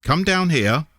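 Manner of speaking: high call up the stairs; aunt calling Tim down, high call. A narrator's reading. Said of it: "heard Aunt May calling".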